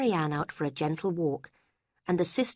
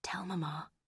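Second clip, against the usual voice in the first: breathy unvoiced whisper; 10 dB quieter than usual. A narrator's reading. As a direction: whisper it softly.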